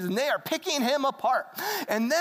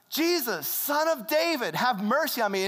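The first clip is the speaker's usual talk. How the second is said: mildly raised, urgent cry; acted frantic plea; 3 semitones higher than usual. Blind man going crazy as Jesus passes, urgent plea. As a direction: call out for mercy with mild desperation. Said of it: "And he's going crazy".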